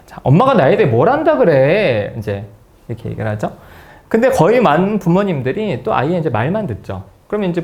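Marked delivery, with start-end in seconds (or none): 0.1-2.1 put-on slow, drawn-out teen protest; acted-out adolescent complaint; imitated teenager. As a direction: play a teenager challenging mom. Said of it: "청소년 자녀 정도 되면 이제 부모한테".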